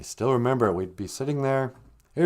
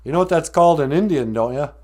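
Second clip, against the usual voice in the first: a hint of old grandpa, quick and louder; grandpa's question; 5 semitones higher, 6 dB louder than usual. Grandpa quizzing his grandson over coffee, lightly voiced. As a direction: ask it fast like a teasing old grandpa. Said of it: "and he goes".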